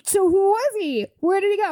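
high, insistent questioning; mock bafflement. Family asking about vanished knight, mock baffled. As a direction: demand answers, playing it up.

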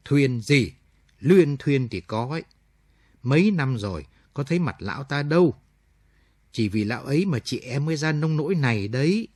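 annoyed aunt snapping about him; irritated. Acted. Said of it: "Lý cáu bẳn". (giọng cáu bẳn, gắt gỏng)

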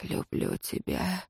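slow whispered love; hot whisper. A narrator's reading. Rior whispering to his lover, slow whisper. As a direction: breathe it against her lips. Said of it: "жарко шепнул Риор".

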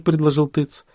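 usual speaking voice

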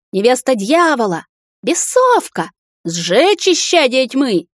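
high, slow furious yelling; roaring mob. A narrator's reading. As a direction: roar it at the witch. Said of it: "ревели всё громче". (рёв разъярённой толпы)

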